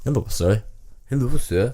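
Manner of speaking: copied Indian accent attempt; tentative mock Punjabi accent. Reader copies co-host's demo, mock Punjabi accent. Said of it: "bring some Punjab back into that".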